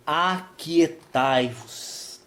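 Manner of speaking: very slow, each syllable stretched; drawn-out verse reading. Shown as a demonstration. Preacher reading the verse to the church, drawn out slowly. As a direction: let the verse hang in the air. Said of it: "Então o verso dez diz assim".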